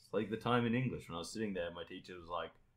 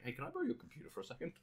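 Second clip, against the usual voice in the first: sweet asking voice; 8 semitones higher, 7 dB quieter, faster than usual. Retold or imitated. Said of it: "I'm like".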